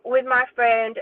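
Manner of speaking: mock Donald in a clumsy American accent; mocking Donald's YouTube interview in a bad American accent. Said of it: "sorry about the American accent, it's really bad".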